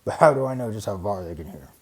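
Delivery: a fast sneer. Acted. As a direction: scoff at him quickly. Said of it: "said the bear with a sneer".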